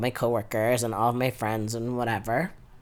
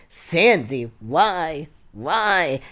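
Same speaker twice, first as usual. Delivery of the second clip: dad wailing to his wife, imitated; mock anguished pleading; 4 semitones higher, 4 dB louder, much slower than usual. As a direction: plead higher and louder, hammed-up despair. Retelling dad's anguished appeal to mom.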